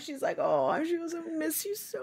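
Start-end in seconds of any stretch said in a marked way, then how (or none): 1.1-2.0 mock crying, higher and quieter. Retelling how a mother cried at a departure: imitating mom crying. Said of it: "say it like she said it".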